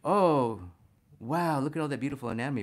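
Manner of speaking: a quick, breathless hammed-up gasp of wonder; mock naive wow. Teacher mimicking a beginner dazzled by the anatomy, mock gushing. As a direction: play the dazzled beginner, rushing the words. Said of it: "you may think".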